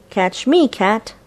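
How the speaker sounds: mouse voice. Acted. Mouse character voiced in story.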